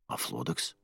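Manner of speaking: low hushed male voice; lightly voiced young man. A narrator's reading. Jer answers in male voice.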